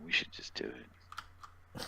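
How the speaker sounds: slow scheming whisper; hushed, sneaky urging. Real, not acted. Scheming quietly on camera.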